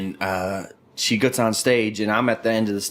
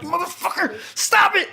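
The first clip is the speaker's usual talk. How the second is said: pleading. Retold or imitated. Begging his friend to stop calling her, high pleading. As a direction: beg him to quit, half laughing. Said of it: "I'm like".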